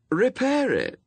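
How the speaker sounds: very high character voice; bright command. A narrator's reading. Anathema telling Newt to fix it, high and showy. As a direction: pitch the order high, then drop.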